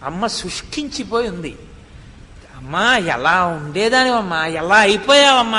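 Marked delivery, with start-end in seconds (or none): 2.6-5.6 son weeping. Retold or imitated. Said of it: "వలవల వలవల ఏడ్చేశాడు".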